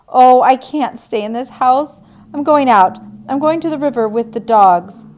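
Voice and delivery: agitated outburst. Acted. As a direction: she has to get out now. Diane storms off upset.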